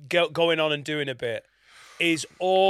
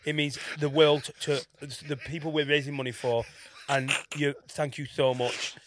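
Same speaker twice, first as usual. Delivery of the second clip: serious charity woman; 3 semitones lower than usual. Retold or imitated. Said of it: "she was like this".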